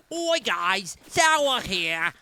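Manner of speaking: loud put-on call to the guys; Sour voice. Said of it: "Sour voice?".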